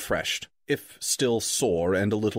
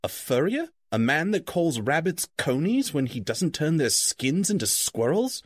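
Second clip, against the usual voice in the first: higher, puzzled and startled; surprised Bilbo; 4 semitones higher than usual. Acted. Bilbo baffled by the wizard's word, higher and startled. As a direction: blurt it out in higher bewilderment. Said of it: "asked Bilbo".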